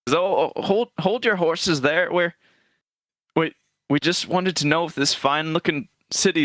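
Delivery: frail grandfather. Acted. Old man calms the gate guard, frail grandfatherly voice. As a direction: stammer mildly like a harmless grandpa. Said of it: "old grandfatherly figure".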